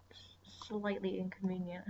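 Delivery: breathy sarcastic whisper aside; mock whisper. Real, not acted. Whispering sarcastically to viewers about a minor inconvenience. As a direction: drop to a dry whisper as if it's a tragedy.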